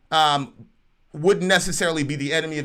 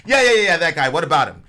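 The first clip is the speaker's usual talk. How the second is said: nervous soldier; 2 semitones higher, 7 dB louder, faster than usual. Acted. Roman soldier asked about the crucified man, nervous. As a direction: cut in edgily, wanting it over with. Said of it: "The Roman soldier gets all kinda nervous".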